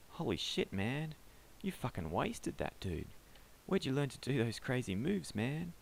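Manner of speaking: put-on a hyped-up kid who just saw a street fight; wide-eyed bystander yelling his awe; excitable young man. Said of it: "the excitable young man".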